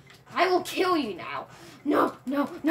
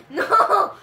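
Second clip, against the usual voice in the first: loud, drawn-out no; protesting shout; 6 dB louder than usual. Real, not acted. Kid losing a game to dad, loud protest. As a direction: cry out in protest, louder.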